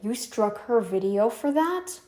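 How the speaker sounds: slow, incredulous question; drawn-out mock disbelief; disbelieving family. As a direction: play an appalled relative questioning it. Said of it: "your family's gonna be like".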